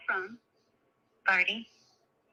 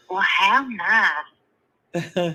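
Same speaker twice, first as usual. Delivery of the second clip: lightly acted belle politeness with a punched HOW; drawn-out, politely dismissive belle; Southern belle; 4 dB louder, slower than usual. Other belle answering a boast, mock-polite reply. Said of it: "Other Southern Belle ... she said".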